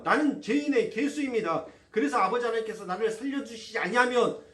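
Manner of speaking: loud, impassioned confessing prayer; preacher voicing a confessing prayer, loud and fervent. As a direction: cry it out to God at full force.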